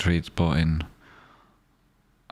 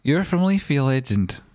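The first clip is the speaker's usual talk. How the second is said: excited; 7 semitones higher than usual. Real, not acted.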